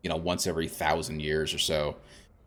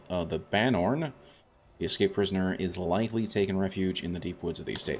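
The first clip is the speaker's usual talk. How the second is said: quest read-aloud. Acted. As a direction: read the quest blurb like a storyteller. Reads the quest description aloud.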